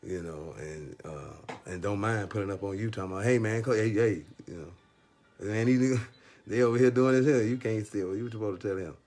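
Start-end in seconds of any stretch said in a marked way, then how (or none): 3.2-9.0 high, loud, fast tattletale calling out; mock snitch voice. Family snitch calling out to the guards, high and loud. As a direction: squeal on him like the nosy relative.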